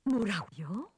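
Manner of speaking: breathless shocked whisper. Acted. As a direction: gasp out the question. Mother shocked on phone.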